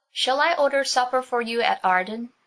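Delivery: high, loud mocking call; mocking shout. A narrator's reading. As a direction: tease them as he rides off. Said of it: "he shouted back mockingly".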